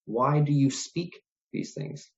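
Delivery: slow question with WHY stressed. Shown as a demonstration. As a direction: put the weight on "why", unhurried. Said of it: "Emphasis on the word why".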